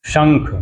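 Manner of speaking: शंख said slowly with a clear श; careful शंख. Shown as a demonstration. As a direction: spell out शंख with the palatal श sound. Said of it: "तालव्य श होता है".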